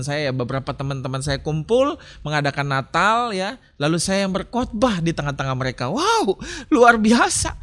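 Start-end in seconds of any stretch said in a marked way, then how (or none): 5.9-7.6 slow, high, louder wow; awed excitement. Real, not acted. Preacher marveling to the congregation at his first sermon, awed and drawn out. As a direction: savour the amazement, stretched out.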